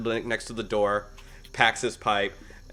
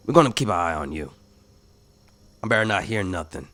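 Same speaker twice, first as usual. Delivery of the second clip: fast parting threat; 2 semitones lower, much faster than usual. Acted.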